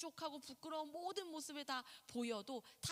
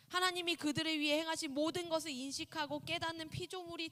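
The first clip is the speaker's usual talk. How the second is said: emphatic reading; 4 semitones higher, 8 dB louder than usual. Acted. Reads the definition with force.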